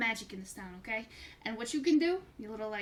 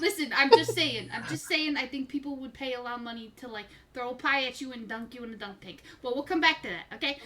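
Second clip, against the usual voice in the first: carnival barker. Acted. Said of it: "Why do you sound like a carnival barker".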